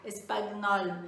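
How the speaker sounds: slow "espanhol" broken as es-pa-gui-nol; "espanhol" with a hard g and an extra little vowel before n; literal spelling pronunciation. Shown as a demonstration. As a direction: sound out the g in "espanhol", slowly. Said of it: "sei lá como é que ia ficar".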